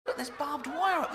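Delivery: high, loud laughing yell; mock alarmed shout. Comic's commando spots barbed wire, yelling high and loud. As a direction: shout the warning through laughter.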